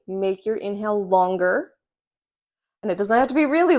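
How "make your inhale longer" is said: "Make your inhale longer" said slowly, each word drawn out; slow the words down as a breathing cue. Shown as a demonstration. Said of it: "cue them or cue yourself".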